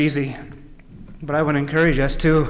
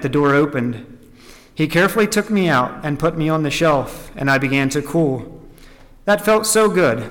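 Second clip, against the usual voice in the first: deliberate, measured storytelling; emphatic read-aloud phrasing; story narration. A narrator's reading. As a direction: read the tale out to a congregation.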